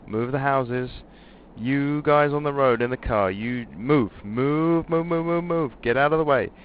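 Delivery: loud, high panicked yelling; frantic shouting. Acted. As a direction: scream at them to clear out. Crash-landing, yelling at people below.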